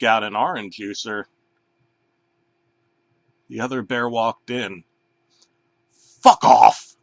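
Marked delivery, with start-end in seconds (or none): 5.9-7.0 much louder barked curse; furious shout. Acted. Banana yelling at the other bear to leave. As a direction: yell it at the intruder.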